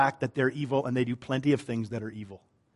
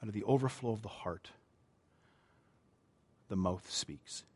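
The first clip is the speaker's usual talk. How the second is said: much softer, lower, letting each phrase land; hushed repeat; 5 semitones lower, 14 dB quieter than usual. Shown as a demonstration. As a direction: say it almost to yourself. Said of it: "repeated slowly, hushed".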